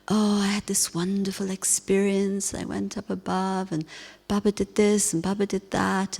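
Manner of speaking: soft, gushing, starry-eyed voice; mock rapture. Mimicking listeners who gush about their wonderful experiences, mock rapture. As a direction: imitate someone lost in rapture. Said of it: "they're all kind of in rapture".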